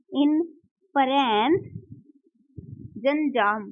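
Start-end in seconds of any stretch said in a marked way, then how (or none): 0.1-1.6 slow drill. Shown as a demonstration. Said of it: "अनुमान होता है".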